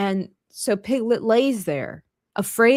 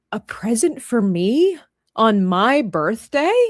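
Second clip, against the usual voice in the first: slow, wondering question; mock amazement; 3 dB louder than usual. Eeyore hears of a present, mock amazement. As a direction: draw out the disbelief after a gasp.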